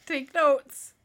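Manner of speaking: loud stage whisper; conspiratorial whispered quip. Real, not acted. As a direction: hiss it as a teasing aside. Teasing aside to friend.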